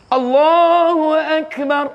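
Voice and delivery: mock a bad imam's Allahu Akbar, drawn out; mock wrong takbir. Shown as a demonstration. Teacher mocks an imam's takbir, slow and high. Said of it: "Bukan Allahu Akbar".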